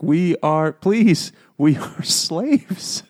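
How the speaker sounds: mock plea, last word drawn out; pleading gnome. Captive gnomes beg the kids, mock pleading.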